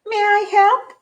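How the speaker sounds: bunny eagerly offering to help the varmint. Acted. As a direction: bounce with keenness to help. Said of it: "He asked eagerly".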